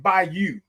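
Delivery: Bayou said as BY-you; local pronunciation. Shown as a demonstration. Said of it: "that's how they say it".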